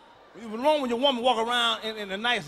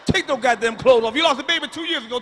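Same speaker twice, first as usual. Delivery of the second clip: louder, commanding order; bossy yell at sister; 6 dB louder than usual. Retold or imitated. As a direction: order her to strip those clothes. Yelling at pregnant-acting sister.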